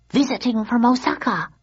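lightly voiced Japanese woman; affirmed. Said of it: "affirmed the woman".

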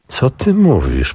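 amazed, drawn-out question; astonished. Acted. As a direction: ask it slowly in disbelief. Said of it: "ze zdumieniem".

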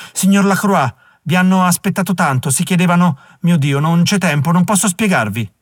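high, loud and breathless with panic; a frightened housekeeper talking over herself; frantic. A narrator's reading. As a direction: rush it out in a flustered panic. Nancy frantic, shouting orders.

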